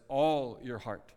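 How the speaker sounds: "all" drawn out slowly and stressed. Shown as a demonstration. Preacher quoting the commandment to show its emphasis, stress on "all". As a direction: lean slowly on the word "all". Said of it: "the emphasis here is all".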